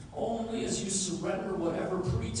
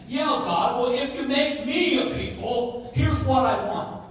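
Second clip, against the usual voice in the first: mock bargaining; 5 semitones higher, 5 dB louder than usual. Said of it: "he's not saying".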